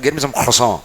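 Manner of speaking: "croissant" with a French throaty r and nasal end; mild imitation of a French speaker; a light French accent on "croissant". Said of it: "He said".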